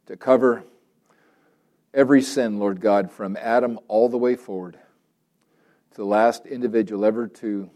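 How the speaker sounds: reverent, unhurried pastoral prayer; public prayer. Real, not acted. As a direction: address God earnestly, phrase by phrase. Leads congregational prayer.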